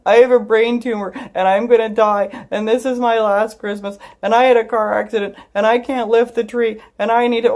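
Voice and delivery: high, loud hammed-up wail; over-the-top blubbering meltdown; imitated bawling. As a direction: blurt a list of woes through mock sobs. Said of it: "clearly I was bawling".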